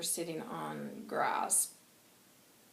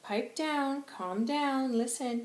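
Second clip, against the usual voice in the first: higher, louder call for order; 6 semitones higher, 5 dB louder, slower than usual. Retold or imitated. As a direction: get the kids to settle down. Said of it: "He's like".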